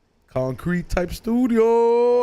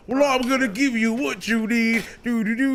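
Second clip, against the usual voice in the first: show quote; 4 semitones higher than usual. Retold or imitated. Quoting a show intro.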